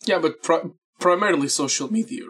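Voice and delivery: cracking voice mid-sentence. Real, not acted. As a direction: voice cracks on a word. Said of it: "My voice cracked".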